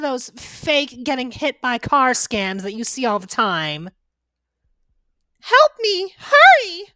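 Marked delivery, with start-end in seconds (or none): 5.4-6.8 shouted, high pleas for help; desperate cry for help. Acted. Victim in the road calling out for help, shouting. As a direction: yell for someone to hurry.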